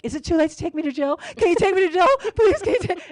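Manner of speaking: high, loud, giggly pleading to be taken away; mock begging. Teen begging the cop to take her to jail, laughing and pleading. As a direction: beg the cop through laughter, playing it up.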